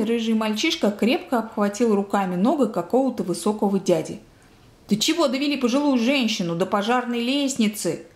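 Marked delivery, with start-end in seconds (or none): none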